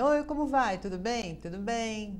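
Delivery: bright, high mock greeting; a falsely cheery hello; fake cheerful greeting. Cumprimento falso. (saudação falsamente animada)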